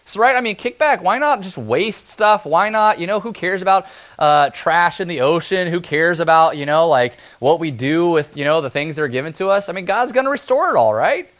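lampoon the lazy believer, sarcastically; mock careless. Preacher mocking a careless attitude, sarcastic.

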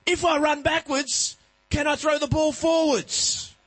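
put-on high, loud, slow little boy; child's voice. Son asking dad about rugby, high slow child voice. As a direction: ask it like an eager kid.

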